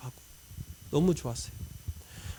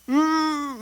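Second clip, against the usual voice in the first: stifled hum; 9 semitones higher, much slower than usual. Retold or imitated. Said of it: "이렇게 하고 기도가 안 되는".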